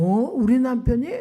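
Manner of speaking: can't believe it's her husband; shocked disbelief. Retold or imitated. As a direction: voice jumps up in disbelief. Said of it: "wife shocked at news".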